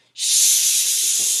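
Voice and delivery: hissed shush; a hidden voice hushes Bear, sharp shush. Acted.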